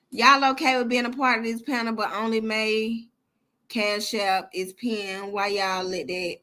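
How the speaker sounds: slow reproach. Real, not acted. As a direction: drag out the complaint, hushed and low. Mock-serious reproach to panel.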